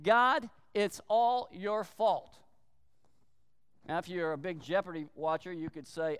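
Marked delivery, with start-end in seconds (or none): 0.0-2.4 blaming God. Retold or imitated. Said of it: "Adam was in essence saying".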